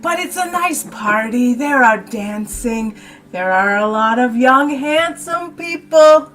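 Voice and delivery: lightly voiced old innkeeper lady. GM voicing old lady Bertha.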